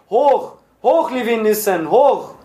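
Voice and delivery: high, rousing shout; chorused cheer. A narrator's reading. Whole cell takes up the cheer for their leader, shouting. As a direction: cry it out like a rallying chant. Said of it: "wiederholte die ganze Zelle".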